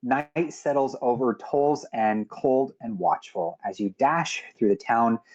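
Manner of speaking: measured game master scene-setting; atmospheric closing narration. Acted. Game master closes the session, solemn atmospheric narration.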